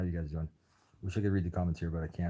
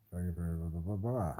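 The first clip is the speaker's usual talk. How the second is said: nonsense blah-blah babble; slower than usual. Real, not acted. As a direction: run of blahs swooping up, then down. Filler noise while fiddling with screen.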